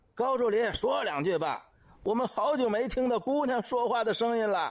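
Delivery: high, loud shouted call-out. Someone in a group calls to an assistant who declines to speak, shouting. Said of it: "有个人喊道".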